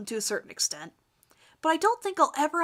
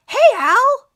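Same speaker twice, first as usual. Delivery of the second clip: higher, loud shout across the room; cheerful call; 12 semitones higher, 13 dB louder than usual. Acted. Owen greeting Al across the classroom, loud cheerful shout. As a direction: hail him from afar.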